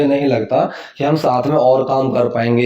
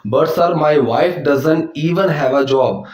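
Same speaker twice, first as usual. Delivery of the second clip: very slow model line; much slower than usual. Shown as a demonstration. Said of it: "लेकिन sir, मेरी पत्नी के पास नौकरी नहीं है".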